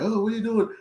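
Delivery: high-pitched, acted-out challenge; mock police challenge. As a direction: imitate a cop stopping someone. Police stop him, quote.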